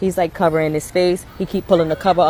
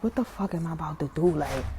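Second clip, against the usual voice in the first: low, soft retold inner thought; hushed dread; 5 semitones lower, 10 dB quieter than usual. Frightened parent thinks under covers, hushed. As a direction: drop way down, quiet and low.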